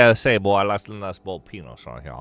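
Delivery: put-on Southern accent. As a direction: play a loud old Southern gent. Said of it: "Boiled, it's Southern style".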